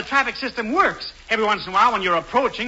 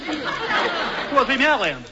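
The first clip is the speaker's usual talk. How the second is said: amazed; 6 semitones higher, much slower than usual. Acted. Alan marvels at the sum.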